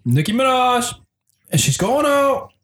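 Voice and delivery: a hint of a JFK impression; slow, high mock Kennedy voice; mock JFK accent. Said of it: "now I've definitely have J F K in my head".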